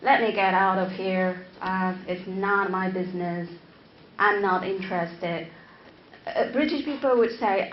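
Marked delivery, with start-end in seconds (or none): 0.0-5.5 brash mock American, loud at the start; put-on American accent, strong first word. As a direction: imitate a blunt, cocksure American. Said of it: "But Americans will say".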